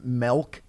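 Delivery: "milk" said as melk; mispronounced milk. Retold or imitated. Roasting Waka's pronunciation, "milk" said as melk. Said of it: "type of person that says".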